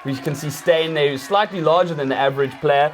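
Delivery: hammed-up play-by-play over the reenactment; mock match commentary. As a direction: present the fake replay like a TV pundit.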